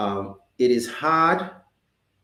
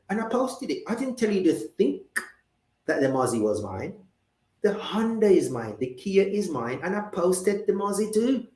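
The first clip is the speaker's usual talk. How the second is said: put-on higher, playfully argumentative British accent; 3 semitones higher than usual. Host defending posing by a Maserati, British accent. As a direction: argue the case in put-on British English. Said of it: "get in my British accent for this one".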